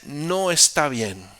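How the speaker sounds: loud, slow pronouncement; slow verdict. Acted. David telling Abner across the valley it is wrong, loud. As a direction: hand down the verdict.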